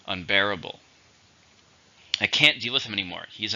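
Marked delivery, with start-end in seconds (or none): 0.1-0.8 "Unbearable" stressed on BEAR; stress on second syllable. Shown as a demonstration. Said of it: "Stress on the second".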